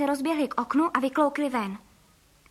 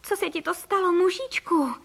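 exclaiming; 5 semitones higher, 5 dB louder than usual. A narrator's reading. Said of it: "zvolal pan Frejka".

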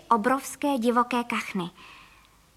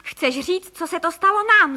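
exclaiming; 5 semitones higher, 5 dB louder than usual. A narrator's reading. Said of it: "zvolal pan Frejka".

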